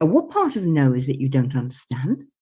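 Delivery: put-on grand upper-class voice. Retelling the classic phrase once said to somebody: posh Lady Muck voice. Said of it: "it's me doing my posh Lady Muck thing".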